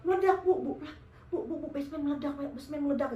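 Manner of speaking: loud burst, then rapid repeats; urgent calling out. Retold or imitated. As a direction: call for mother in a rush. Startled child reporting explosion to mother.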